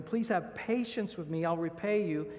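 a touch of begging, pitch lifted on Please; mildly pleading "Please have patience with me". Shown as a demonstration. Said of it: "He's pleading with him".

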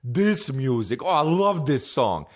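mock the friend's delight in the song; music buddy impression. Buddy reacting to eighties music, imitated gushing. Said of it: "and he was like".

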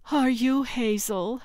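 high, kindly grandmother voice; soft, grandmotherly. A narrator's reading. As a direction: ask sweetly like a grandmother. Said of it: "whose voice was soft and grandmotherly".

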